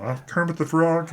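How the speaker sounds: high, pinched frog puppet voice; Kermit the Frog. Retold or imitated. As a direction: squeak it out like the Muppet frog. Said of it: "cartoon character voices".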